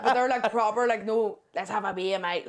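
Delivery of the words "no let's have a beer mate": lightly imitated Australian bogan; attempted Aussie accent. Showing a friend how bogans talk, attempted Aussie accent. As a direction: have a loose go at an Aussie accent. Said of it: "I can't do the Aussie accent".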